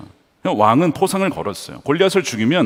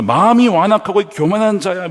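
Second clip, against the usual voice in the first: acted accusation, pitched up; raised, mock-angry condemnation; attacking rebuke; 4 semitones higher, 4 dB louder than usual. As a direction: hurl a scolding charge at him. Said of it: "막 공격하면서".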